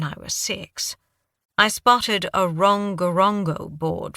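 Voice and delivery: put-on light British accent, fond memory; understated British accent, recalling Easter Island. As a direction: tell the childhood tale in a British accent. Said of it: "Your accent".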